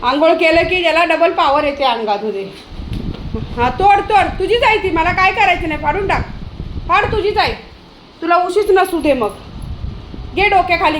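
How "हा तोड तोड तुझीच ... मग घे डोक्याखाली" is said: high-pitched, exasperated telling-off; raised, higher scolding voice; sarcastic scolding. Real, not acted. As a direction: scold a pet by daring it to carry on. Scolding dog chewing its pillow.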